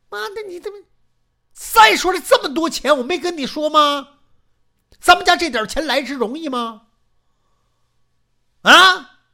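high and loud, hammering every question; angry tirade. Acted. Old man yelling at wife about the family money, high and loud. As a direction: berate her until she gives in.

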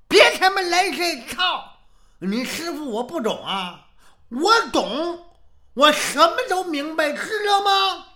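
high, loud, indignant shouting; hammed-up offended master; angry retort. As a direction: snap back at the excuses, climbing to a shout. Angry master rejects disciples' excuse.

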